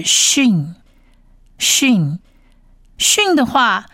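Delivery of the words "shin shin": "shin" said slowly with hushing sh; letter name shin. Shown as a demonstration. Teacher names the dotted letter, "shin" with sh. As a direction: repeat "shin" slowly, a pause between. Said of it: "所以这个字是shin".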